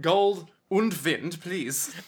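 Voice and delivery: "Gold und Wind" with a slow mock German sound. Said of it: "mock German title".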